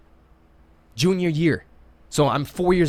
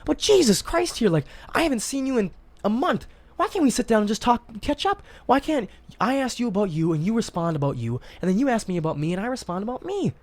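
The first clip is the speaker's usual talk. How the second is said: exasperated pleading; 8 semitones higher than usual. Retold or imitated. Pleading with gossiping friends.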